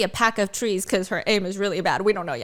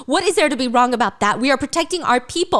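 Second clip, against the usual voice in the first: heated argument; 3 semitones higher than usual. Acted. Violet argues with Xaden.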